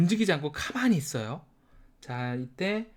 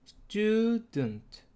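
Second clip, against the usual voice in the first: student with stud high and slow; stress on stud; 6 semitones higher than usual. Shown as a demonstration. Teacher models the stressed syllable, high and slow. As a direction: hold and lift stud in student. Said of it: "여기에만 강세가 온다".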